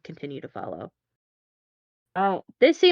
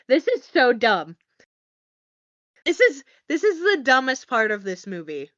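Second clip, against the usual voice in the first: laughing through the words; amused, laughing disbelief; 4 semitones higher, 4 dB louder than usual. Real, not acted. Mocking the movie, laughing.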